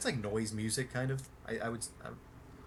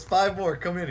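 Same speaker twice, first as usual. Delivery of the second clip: higher and louder, barking orders to fans; bossy Billy voice; 6 semitones higher, 7 dB louder than usual. Retold or imitated. Billy ordering fans onto the bus, loud high bossy voice.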